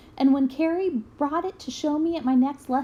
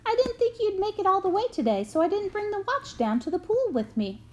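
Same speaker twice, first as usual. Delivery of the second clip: coach admitting; 8 semitones higher than usual. A narrator's reading. Coach sheepishly admits forgotten watch.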